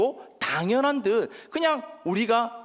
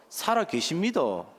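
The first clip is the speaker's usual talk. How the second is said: slow, measured Gyeongsang accent; Gyeongsang dialect; 5 semitones lower, slower than usual. Shown as a demonstration. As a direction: teach the Gyeongsang line piece by piece. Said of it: "어떻게 한다고요?".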